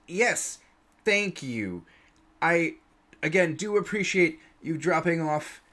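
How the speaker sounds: flustered, composing himself. Acted. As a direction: choke down his excitement and stay polite. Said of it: "tries to swallow it down".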